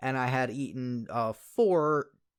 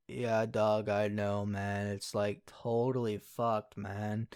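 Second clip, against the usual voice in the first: lazy stoner drawl, a bit lower and softer; 4 semitones lower, 4 dB quieter, much slower than usual. Retold or imitated. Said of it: "I was talking exactly like that, too, and, like, you know, the stereotypical stoner way".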